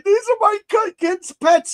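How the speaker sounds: high, loud wail, imitating a crying man; retold crying. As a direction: wail it the way the man cried, half-mocking. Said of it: "he starts crying".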